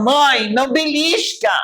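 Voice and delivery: put-on a child shouting at mother under the table; child's yell. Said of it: "Eu gritava".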